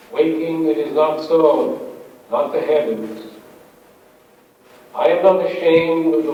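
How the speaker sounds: measured, deliberate poem reading; poetry reading. Acted. Poet reading a dawn nature poem to an audience, measured recital. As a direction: read it as verse, letting each phrase settle. Reads own poem aloud.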